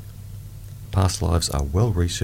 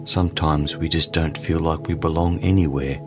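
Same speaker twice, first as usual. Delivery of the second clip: guided meditation. Acted. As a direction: ease the listener into calm.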